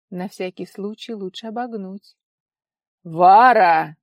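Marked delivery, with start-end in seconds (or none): 3.0-4.0 loud stern bellow of a name; father roaring his daughter's name; menacing shout. A narrator's reading. Father calling out to his daughter, loud and menacing. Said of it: "Грозный оклик отца".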